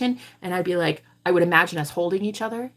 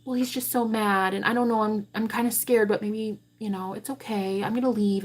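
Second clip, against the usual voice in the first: timid, giving-in voice; 4 dB quieter than usual. Retold or imitated. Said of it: "accepted the bullshit he was giving me and said".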